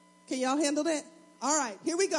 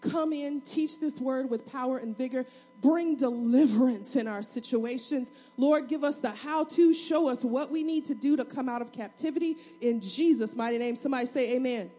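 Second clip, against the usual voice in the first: prayer. Acted. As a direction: pray over the word. Spontaneous prayer.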